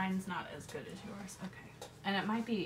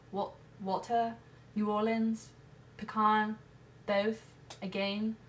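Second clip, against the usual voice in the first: put-on light British accent, listing the words; a nervous put-on British accent; mock British accent; 2 semitones higher, 4 dB louder, slower than usual. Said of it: "types of English accents".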